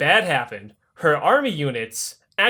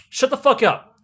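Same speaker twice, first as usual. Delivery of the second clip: Catherine snaps higher, shut them up; mock angry snap; 7 semitones higher than usual. Catherine silences fawning nobles, a raised mock-angry snap. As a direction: cut the nobles off sharply, a notch up.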